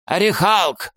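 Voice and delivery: high, strained wheezing cry; hoarse croak. Acted. Sniffer croaks the name while being choked, strained. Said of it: "прохрипел Нюхач".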